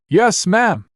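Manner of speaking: high, eager soldier's shout; shouted reply. Acted. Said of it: "Thunderclap shouted".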